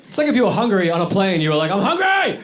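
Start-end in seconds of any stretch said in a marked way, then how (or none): 1.7-2.4 high-pitched hammed-up wail; exaggerated, stretched high cry; mock announcement. Mocking someone announcing hunger like yawning.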